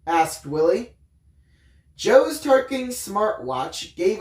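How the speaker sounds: lightly voiced storytelling read; story narration. A narrator's reading. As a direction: read the chapter aloud to the viewers. Reads the book aloud.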